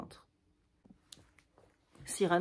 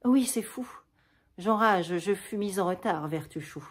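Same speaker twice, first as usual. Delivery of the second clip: gaieté forcée, plus haute au début; enjoué malgré la douleur; voix gaie; 5 dB louder than usual. Acted. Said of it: "d'une voix gaie". (cacher sa pâleur sous un ton gai)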